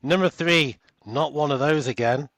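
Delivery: loud, high hyped radio countdown host; big excited DJ countdown, punch each number; American countdown. Pretend. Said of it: "now I kinda wanna hear your American countdown".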